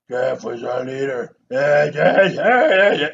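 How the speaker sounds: lightly imitating a gruff leading-man voice; a hint of Dermot Mulroney's drawl, loud on the yeahs; mock action-hero accent. Actor mocked for his Western voice, lightly imitated. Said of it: "why are you sounding like this".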